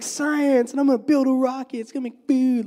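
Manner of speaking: high, fast, eager rush; eager kid inventor. Retold or imitated. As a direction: blurt out big dreams quickly. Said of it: "he's like".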